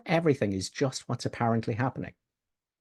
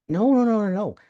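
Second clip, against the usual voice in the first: emphatic no; 9 semitones higher, 4 dB louder than usual. Real, not acted. Cutting off the mistaken view.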